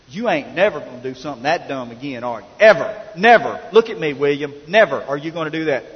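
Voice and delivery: acted stern warning with punched single words; stern officer. Officer warning the preacher's son at the car window, stern. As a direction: lay down the law like a stern officer. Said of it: "he looked at him real sternly".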